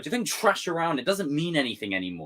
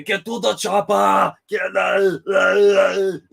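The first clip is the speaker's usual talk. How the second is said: slow, louder, higher action-hero bark breaking into a laugh; action hero shout; 3 semitones higher, 8 dB louder, much slower than usual. Retold or imitated. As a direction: bellow it like a muscle-bound movie star. Shouted action-movie hero quote.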